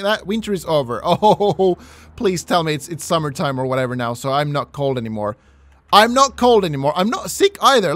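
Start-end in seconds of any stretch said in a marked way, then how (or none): 5.9-7.9 higher, louder happy exclaim; excited. Real, not acted. Player celebrates no longer being cold, excited. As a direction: cheer the relief out loud.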